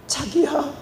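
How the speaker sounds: small, high-pitched pleading; mock tearful apology. Shown as a demonstration. Wife apologizing to husband to win him over, mock tearful. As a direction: demonstrate a weepy, high little sorry. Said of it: "하고 울어보세요".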